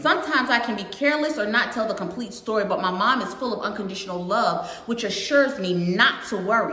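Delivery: put-on lilting read-aloud to a young audience; storybook narration with singsong rhythm; picture book read-aloud. A narrator's reading. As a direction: read it out brightly, line by line.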